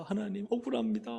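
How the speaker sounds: plaintive retold appeal; aggrieved complaint to God. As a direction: cry out your grievance, imitating a past prayer. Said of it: "하고 이렇게 막 하소연을".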